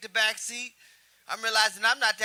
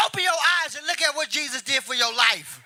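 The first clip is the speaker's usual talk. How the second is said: emphatic retold scolding holler; mock hollering; 3 dB louder than usual. Preacher father to son in movie theater, mock hollering. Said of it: "this nigga hollering at me".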